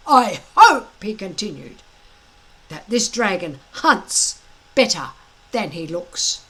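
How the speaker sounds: a big blustering Viking instructor gloating at his recruits; booming Gobber. Acted. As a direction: lord it over the boys with relish. Gobber scolds the boys.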